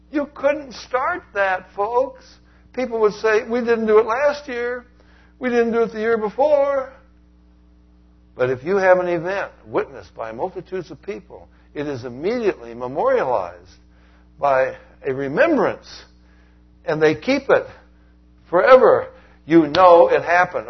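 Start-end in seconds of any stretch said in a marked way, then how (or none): 0.1-6.9 incredulous objection. Acted. 14.4-20.7 rising to a loud, slow climax; preaching climax. Acted. Preacher drives home the Passover proof, building loud and slow.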